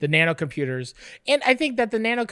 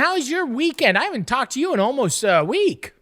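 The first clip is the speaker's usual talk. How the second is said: bright, much higher sing-song hello, settling down toward the end; mock cheery greeting; 6 semitones higher, 3 dB louder than usual. Cohost greets Two Tone in a hammed-up cheery voice. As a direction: greet him like an overeager host.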